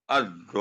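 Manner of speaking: अज़्ज़ोनीना with the नून held; held noon. Shown as a demonstration. Teacher reads अज़्ज़ोनीना with the नून held. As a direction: pause on नून in अज़्ज़ोनीना before going on. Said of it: "मैं एक दफा फिर पढ़ देता हूँ".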